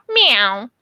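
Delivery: a light imitated meow; cat meow. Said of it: "your cat goes".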